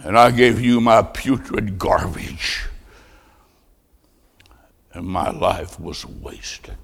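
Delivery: slow, low, soft, sinking almost to nothing; ashamed confession. Acted. Charlie confessing a wasted life to Christ, hushed with shame. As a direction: let the voice collapse into hushed regret.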